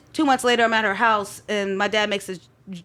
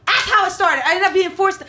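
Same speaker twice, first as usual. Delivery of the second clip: laughing while telling, higher and louder; 9 semitones higher, 6 dB louder than usual. Real, not acted. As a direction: laugh out the words at the irony.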